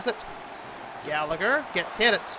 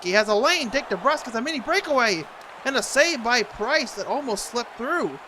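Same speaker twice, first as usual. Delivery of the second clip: excited play-by-play; 5 semitones higher, 4 dB louder than usual. Real, not acted. Breakaway call in play-by-play.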